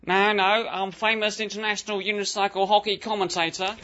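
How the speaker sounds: put-on a slipping New Zealand Australian accent; insist, while the New Zealand Australian twang slides. Clive insists on his fame with a slipping New Zealand Australian accent. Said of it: "your accent's slipping".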